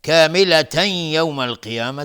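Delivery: کاملة یوم with the nasal tanvin merged into یوم; loud teaching demo of ادغام با غنه; tanvin with ghunna. Shown as a demonstration. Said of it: "تنوین بعدش یا ادغام با غنه". (ادغام تنوین با غنه در کاملة یوم)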